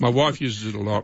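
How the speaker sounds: talking through a mouthful of food; words round a bite of food; mouth full. Real, not acted. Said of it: "I'm talking with my mouth full".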